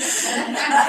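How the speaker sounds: a real, warm laugh at her own stubbornness; laugh at herself. Real, not acted. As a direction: laugh it off, amused at yourself.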